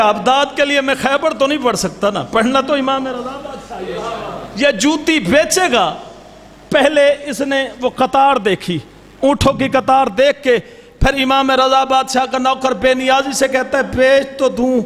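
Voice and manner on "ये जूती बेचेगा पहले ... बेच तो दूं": steady preacher's narration with voiced figures; majlis storytelling. A zakir narrating the Imam's sandal story, measured preaching. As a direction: tell the tale to the mourners.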